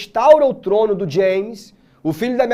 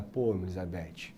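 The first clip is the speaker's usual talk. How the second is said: meek plea; 14 semitones lower, 16 dB quieter, slower than usual. Retold or imitated. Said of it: "Aí o cara".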